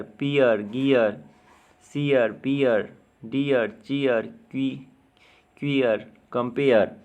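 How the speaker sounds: word-list demo, falling ईअ glide in नियर, टीयर. Shown as a demonstration. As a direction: say नियर, क्लियर, डियर with ई gliding into अ. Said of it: "वो ईए की तरह होगा". (नियर, डियर में ईए की ध्वनि साफ़ बोलें)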